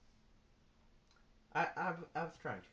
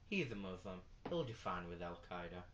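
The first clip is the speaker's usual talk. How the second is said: quiet aside; 7 semitones lower, 7 dB quieter than usual. Retold or imitated. Inner thought, low muttered aside.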